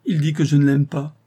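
high, loud wounded appeal; sublime fervour. A narrator's reading. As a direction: protest to heaven with fervour. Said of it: "avec une expression sublime". (plainte exaltée)

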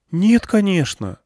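put-on a frightened girl sensing the crowd; young girl Irina, hushed. Irina voiced.

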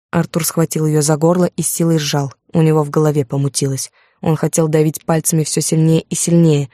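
usual speaking voice

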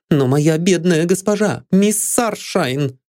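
high, slow grieving words; tearful. A narrator's reading. Maid Lydia in tears over her mistress. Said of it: "заливаясь слезами".

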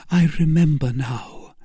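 high-pitched character voice; Milady. Acted. Milady recalling how she was hurt, high-pitched. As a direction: lift it well above the narration. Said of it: "cried Milady".

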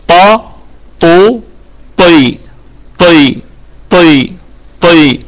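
طا، طو، طي as separate emphatic syllables; firm, unaspirated ط on each of طا، طو، طي; taa vowel drill. Shown as a demonstration. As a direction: drill heavy ط through long a, u, i. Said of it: "أنا آتي بحركاته".

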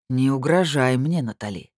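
медленно, с нажимом, громче; предостерегающе рыкнуть; с предупреждением. Acted. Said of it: "прорычал он с предупреждением". (медленно и угрожающе, имя тише)

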